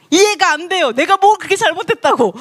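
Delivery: high-pitched mock indignation; aggrieved protest. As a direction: whine that it makes no sense. (높은 톤으로 억울해하며 따지는 흉내)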